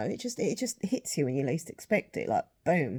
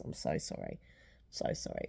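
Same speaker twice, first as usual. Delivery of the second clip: soft apology; 10 dB quieter than usual. Real, not acted. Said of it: "I've gone on for nearly twenty minutes".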